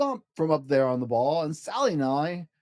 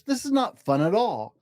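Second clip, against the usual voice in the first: much higher, complaining fish; squeaky fish protest; 6 semitones higher than usual. Acted. Fish held up by the cat, high and complaining. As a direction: whine to be let down.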